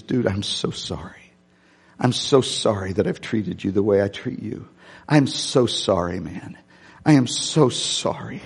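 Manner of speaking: understated tearful sorry; mild retold crying. Old rival apologizes at the casket, mildly tearful. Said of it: "he cries and he says".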